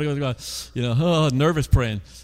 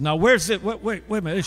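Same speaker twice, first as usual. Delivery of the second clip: flustered clerk; 4 semitones higher than usual. Retold or imitated. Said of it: "She got all confused".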